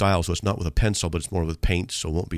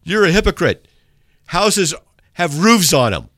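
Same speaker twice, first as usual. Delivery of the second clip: higher, louder silly accusation; mock angry emailer; 9 semitones higher, 7 dB louder than usual. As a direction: spoof a nonsense hater. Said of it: "someone writing me an email and saying".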